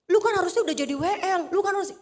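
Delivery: playfully exaggerated goading; imitating an instigator. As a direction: imitate someone stirring up trouble. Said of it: "orang tuh seneng ngompor-ngomporin".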